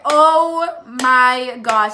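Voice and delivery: drawn-out, emphatic oh-my-gosh; acted dismay. Storyteller hears she was reported a runaway, dismayed. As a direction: let the dismay land word by word.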